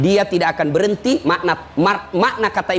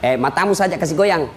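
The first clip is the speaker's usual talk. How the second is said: low, easygoing devil; reassuring devil; 3 semitones lower than usual. Acted. Devil tells the dying man not to worry, coaxing. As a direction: coax casually, as if it's no trouble. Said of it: "Dia bilang iblis".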